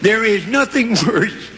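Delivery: slow, pinched nasal voice; stuffy-nose elephant voice. Acted. Elephant to hippo, slow stuffy-nose voice. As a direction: wrinkle the nose and drag it out. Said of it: "wrinkle up my nose to talk like this".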